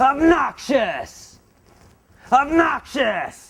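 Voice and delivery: very high, shrill, rude, annoying, obnoxious yell. Teaching a new word, the speaker shows listeners how to say it: shouting.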